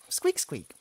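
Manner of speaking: squeaky mouse squeak. Acted. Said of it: "Count Dochichi".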